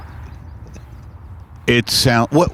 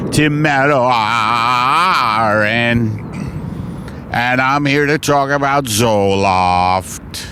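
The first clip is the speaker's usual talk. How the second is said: slow announcer voice. Acted. Mock host introduction, slow.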